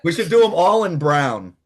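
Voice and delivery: laughing through the words. Real, not acted. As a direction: chuckle out the joke. Laughs while joking.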